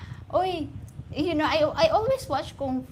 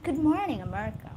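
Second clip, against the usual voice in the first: imitated US morning-show greeting; lightly put-on American accent; 3 semitones higher, faster than usual. Speaker mimicking a US greeting to America, American accent. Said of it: "in the U S also".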